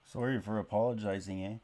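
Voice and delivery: playfully hammed-up Canadian accent; exaggerated Canadian accent. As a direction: lay on the Canadian stereotype. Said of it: "exaggerate the accent".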